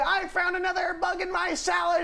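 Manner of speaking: mock pirate outrage. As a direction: snarl it like a pirate. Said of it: "You would say".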